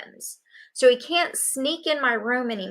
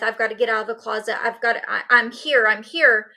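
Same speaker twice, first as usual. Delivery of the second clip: retold urgency; faster than usual. Child hidden in the closet wants out, urgent. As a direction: rush it, then push out the repeated words.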